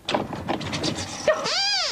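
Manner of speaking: high, airy laugh. Acted. Sue laughing at Sweep's waterproofs, high giggle. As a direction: let out a light giggle.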